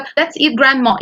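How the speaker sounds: "Let's eat grandma" said straight through without a comma; "eat grandma" as one phrase, grandma being the food; no pause before grandma. Shown as a demonstration. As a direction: run "Let's eat grandma" together, no break. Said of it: "يعني تعالى ناكل grandma".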